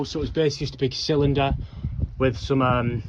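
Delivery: panting between words, out of breath; breathless from walking. Real, not acted. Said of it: "jeez, I'm out of breath".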